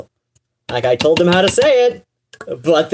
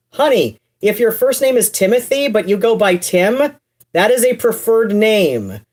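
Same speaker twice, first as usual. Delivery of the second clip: sassy honey retort; 4 semitones higher than usual. Retold or imitated. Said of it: "And I'm like".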